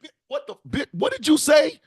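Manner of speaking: high, stunned disbelief; bi- what did you say, rising high in shock; wife stunned, rising sharply in pitch; shocked outrage. Acted. Wife shocked at grandmother's remark.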